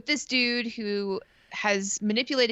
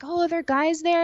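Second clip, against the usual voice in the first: high, louder suspicious whine; mock the boyfriend's jealousy, pitched way up; jealous whine; 9 semitones higher, 5 dB louder than usual. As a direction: boyfriend grilling her about guys, high and whiny. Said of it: "And he'd be like".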